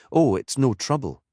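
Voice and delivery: a hint of a Geordie lilt, chatty and tired; vicar's voice. Anna reassures Harry.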